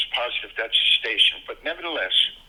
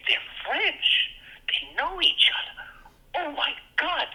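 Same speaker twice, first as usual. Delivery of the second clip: put-on much higher, breathless thrilled kid voice; giddy excitement; 13 semitones higher, slower than usual. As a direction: gush like a thrilled child, half whispered. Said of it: "I was so excited".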